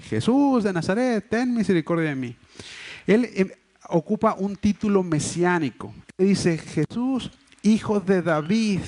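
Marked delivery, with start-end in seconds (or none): 0.1-2.4 high, stretched-out mock cry, easing down; imitated calling out. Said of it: "lo que se pone a gritar es". 6.6-8.8 imitated cry. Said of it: "lo que se pone a gritar es".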